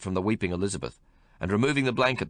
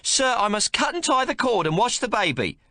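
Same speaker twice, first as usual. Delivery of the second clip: high, louder voice of a firm midwife; midwife shouting back; 5 dB louder than usual. Acted. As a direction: call back through the door, standing firm. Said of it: "the midwife shouts back".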